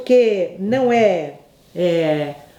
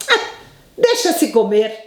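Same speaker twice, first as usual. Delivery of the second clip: grudging grandfather. Retold or imitated. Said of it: "Era o que ele respondia".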